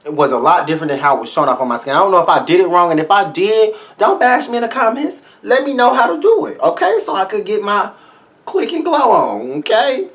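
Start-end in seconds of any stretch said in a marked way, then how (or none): 4.0-10.1 much higher, sweet pleading voice. Real, not acted. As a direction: coax the commenters, pitched way up. Pleading to commenters.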